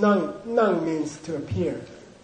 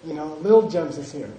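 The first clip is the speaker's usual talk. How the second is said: put-on Thai accent; 2 semitones lower than usual. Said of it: "the receptionist was Thai".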